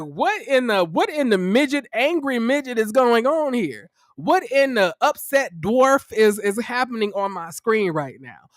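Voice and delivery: high, drawn-out mock astonishment; incredulous outburst. Host reacts to what's on her screen, exaggerated incredulity. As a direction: lean hard on each ridiculous phrase.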